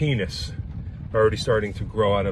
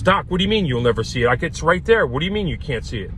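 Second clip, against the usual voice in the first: higher, fast, incredulous objection; exasperated protest; 4 semitones higher than usual. Acted. Patient objecting to his doctor's absurd reassurance, exasperated. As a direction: protest in mounting disbelief, quickly.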